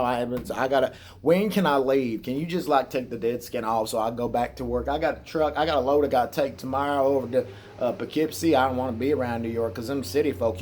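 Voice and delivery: mock hillbilly brother pleading to leave; put-on Southern hillbilly twang; hillbilly accent. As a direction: imitate a hillbilly trucker. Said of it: "got a hillbilly accent".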